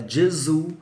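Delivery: teacher models the Italian name Gesù. Shown as a demonstration. Teacher shows students the Italian Gesù. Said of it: "em italiano fala".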